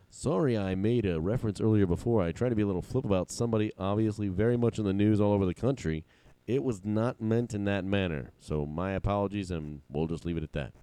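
lightly voiced sportscaster; a measured, faintly imitated sportscaster reading; Al Michaels. Reading an on-air apology as a sportscaster, lightly imitated. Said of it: "put on my Al Michaels voice".

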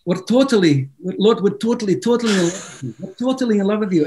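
rough imitation of a Scottish worship leader; Scottish accent. Scottish worship leader singing God's praises, imitated Scottish accent. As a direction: attempt a loose Scottish accent. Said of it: "Is that your Scottish impression?".

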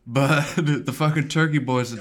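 high, loud put-on rejection; imitating a rapper. Co-host plays the departed fan to his wife, mock disowning. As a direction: disown the show with comic gusto. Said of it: "now he's completely out".

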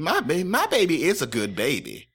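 a doting mother defending her boy, lightly put on; lightly voiced proud Southern mom; mock mom voice. Podcaster mocks Dean's mother praising her baby, lightly put-on voice. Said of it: "the mom voice".

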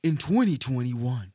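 slow, dramatic trailer announcer; drawn out like an epic film trailer; movie trailer voice. Pretend. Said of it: "his movie trailer voice is crazy".

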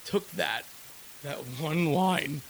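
a little hoarse, losing voice; hoarse voice wearing thin. Real, not acted. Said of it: "I'm losing my voice a little bit".

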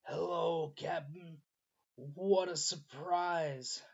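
slow, raspy monster whisper; hoarse whisper. Acted. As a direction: rasp it out like a creature. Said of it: "His voice sounds like a hoarse whisper".

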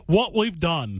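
put-on light Australian accent on the line. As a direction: say it like an Aussie presenter. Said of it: "an Australian guy".

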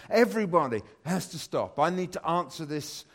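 thrilled the son is calling; super excited. Retold or imitated. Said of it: "and I get super excited".

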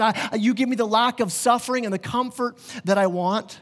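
a hint of a bossy believer bargaining; lightly voiced believer telling Jesus what to do; demanding believer.

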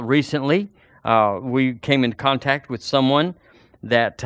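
normal talking voice

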